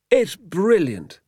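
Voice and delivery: high, drawn-out praise; delighted admiration. Acted. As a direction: marvel slowly in a high voice. Doctor admires the trick.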